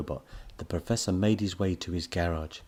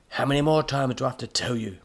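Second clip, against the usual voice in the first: higher, fed-up scolding; exasperated cry; 5 semitones higher, 4 dB louder than usual. A narrator's reading. Professor to robot mangling his name, exasperated cry. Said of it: "cried the professor".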